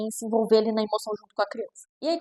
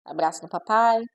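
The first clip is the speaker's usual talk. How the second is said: calm parent; 3 semitones lower than usual. Retold or imitated. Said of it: "Eu falo assim".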